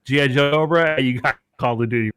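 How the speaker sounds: 兴奋地大声喊; excited shout. Real, not acted. Joking pitch, voice rising.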